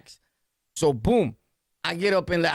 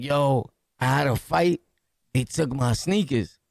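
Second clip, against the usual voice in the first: lower, deflated mumbling friend; sheepish friend; 5 semitones lower than usual. Retold or imitated. Friend admits they took his sneakers, lower deflated voice. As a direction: play it embarrassed and beaten.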